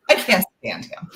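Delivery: laughing through the words; real giggle, teasing her own character. Real, not acted. Author teasing about her hero, laughing through it.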